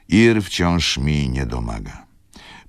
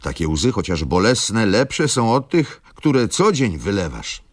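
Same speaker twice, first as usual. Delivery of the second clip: scolding on; 7 semitones higher, 4 dB louder than usual. A narrator's reading. Irritated mother continues scolding.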